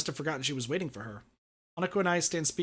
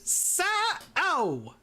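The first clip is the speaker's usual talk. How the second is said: stern call; 13 semitones higher than usual. Acted. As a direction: call the name sternly from behind. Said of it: "A stern female voice gruffly calls out".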